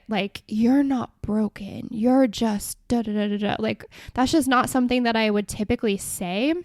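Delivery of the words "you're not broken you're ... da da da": slowed, lightly mocking soothing tone; mock affirmation. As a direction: parody the caption, trailing into da-da filler. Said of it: "I certainly don't say".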